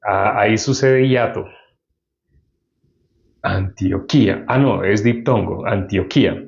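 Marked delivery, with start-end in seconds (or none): 3.4-4.4 "Antioquía" slowly, stressed on the final í. Shown as a demonstration. Preacher shows the biblical pronunciation, stress on the I. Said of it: "aquí tiene tilde en la I". 5.7-6.4 "Antioquía" with the stress on KÍ; low "Antioquía", weight on the accented í. Shown as a demonstration. Preacher corrects himself on the syllables, stress on the I. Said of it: "tiene el acento en la I".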